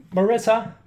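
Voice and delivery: high, loud call up the stairs; calling upstairs. Acted. Dad calls his daughter down for dinner, high loud call. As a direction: sing out her name so she hears upstairs.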